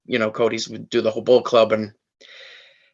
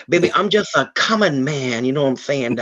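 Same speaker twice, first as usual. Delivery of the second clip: Dusty Rhodes. Retold or imitated. Lightly doing Dusty Rhodes for the interviewer. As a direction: slip into the legend's voice for a beat. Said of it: "Dusty Rhodes impersonator".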